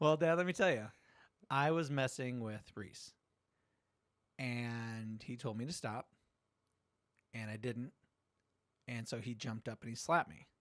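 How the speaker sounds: put-on unbothered laid-back kid, easing into the story; super chill kid. A hint of a calm teenage son explaining the slap to dad. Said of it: "was super chill".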